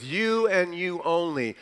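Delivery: YOU held long in "You and you only"; emphatic YOU. Shown as a demonstration. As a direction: lean firmly on the first You. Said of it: "being emphatic there, "you".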